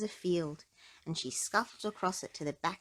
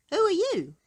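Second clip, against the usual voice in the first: kindly asking; 13 semitones higher, 9 dB louder than usual. A narrator's reading. Mister Strong asks the mouse.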